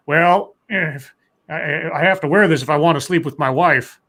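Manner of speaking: lightly imitated politician, halting start; Biden. Host retelling Biden's hat remark, lightly imitated halting candidate. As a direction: drag out the "well", stumble, then push on. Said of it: "And Biden said".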